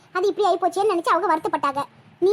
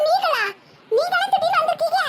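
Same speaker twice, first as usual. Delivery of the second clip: higher, laughing surprised welcome; laughing greeting; 9 semitones higher than usual. Acted. Saroja greets the surprise visitor, laughing. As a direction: laugh through the happy surprise.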